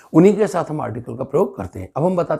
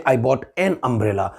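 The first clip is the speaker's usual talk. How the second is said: Indian English; 4 semitones lower, much slower than usual. Shown as a demonstration. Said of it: "और हम बोलते हैं".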